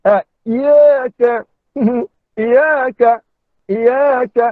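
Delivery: "iya ke" with a single light y; wrong reading, no sabdu. Shown as a demonstration. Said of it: "ada yang baca macam gini". (bacaan salah "iya ke" tanpa sabdu)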